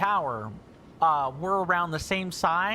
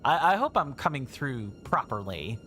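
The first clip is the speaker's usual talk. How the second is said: sultry whisper; 4 semitones lower than usual. Real, not acted. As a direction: whisper it seductively. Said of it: "in a somewhat more sultry tone like this".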